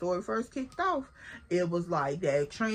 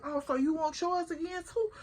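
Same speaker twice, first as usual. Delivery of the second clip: higher, mocking challenge; taunting; 6 semitones higher than usual. Taunting the girl squaring up, high and mocking. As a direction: dare her to come back for more. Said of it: "I'm like".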